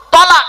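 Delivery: তলাক with a short first vowel, not তালাক, said high and loud; correct Arabic pronunciation. Shown as a demonstration. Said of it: "শব্দটা হলো".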